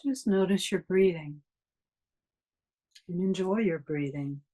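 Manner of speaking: calm, even guiding voice with long pauses; guided meditation. Real, not acted. Meditation teacher leading a class to notice breathing, guided meditation. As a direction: guide listeners gently through the breath, unhurried phrases between long silences.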